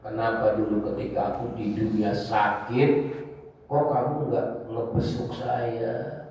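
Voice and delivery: lightly voiced divine questioning, drawn-out words; God addressing humanity. Preacher voices God reproaching His servants on Judgment Day, slow solemn questioning. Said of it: "Allah bilang begini".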